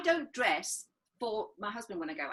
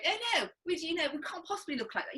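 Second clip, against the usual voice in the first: lightly voiced, higher-pitched scandalised cinema-goer; old-time cinema-goer; 4 semitones higher than usual. Women in the cinema tutting at Hollywood stars, mock dismay. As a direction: put on a prim film-audience protest. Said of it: "I really hope they spoke like that".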